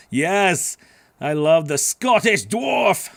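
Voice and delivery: loud, high, relishing cheer; playful enthusiasm. Pretend. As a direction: draw it out with big mock-grand delight. Cheers the mention of dwarf accent.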